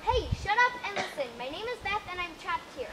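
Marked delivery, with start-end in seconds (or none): 0.0-1.3 snapping. Acted. Beth cuts off rambling lion.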